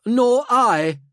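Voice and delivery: high, loud noble voice; reply as a high-pitched, courteous aristocrat; Helmont Corval. Acted. Helmeted noble answering a fellow gentleman, high and courteous. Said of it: "replied Corval".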